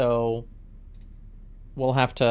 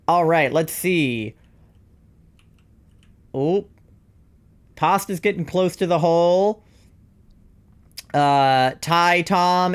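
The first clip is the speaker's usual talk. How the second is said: sportscaster voice. Acted. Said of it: "Generic, fast, overactive announcer".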